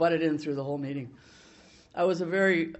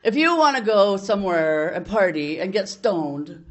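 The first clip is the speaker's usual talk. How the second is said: loud, slowed, scolding tirade; telling him off; 5 dB louder than usual. Retold or imitated. Telling off the man trashing NA, loud angry scolding. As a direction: tear into him like you did back then. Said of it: "And I just said".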